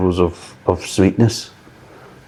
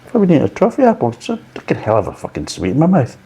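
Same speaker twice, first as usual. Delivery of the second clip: mock disgust, fast; 5 semitones higher, faster than usual. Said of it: "you kind of thinking".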